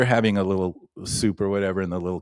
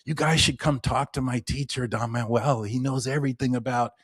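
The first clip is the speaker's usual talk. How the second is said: higher, eager pitch to the strangers; eager excitement; 4 semitones higher than usual. Retold or imitated. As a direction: sell the old teacher with a touch of excitement. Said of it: "he gets all excited".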